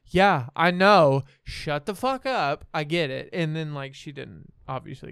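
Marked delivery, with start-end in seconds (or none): 0.0-3.3 exasperated. Retold or imitated. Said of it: "And I'm like".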